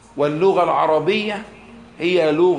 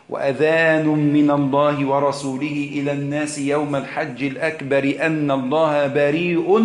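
Quran recitation. Acted. Teacher reciting the verse to his listeners, measured chant.

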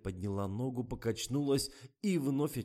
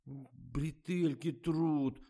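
persistent complaint; 7 semitones higher, much slower than usual. A narrator's reading. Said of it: "не успокаивалась Катя".

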